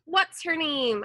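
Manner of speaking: high loud holler, bravado over nerves; loud, high brave-sounding holler; holler, trying to sound brave. A narrator's reading. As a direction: call out, faking courage. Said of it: "I hollered, trying to sound brave".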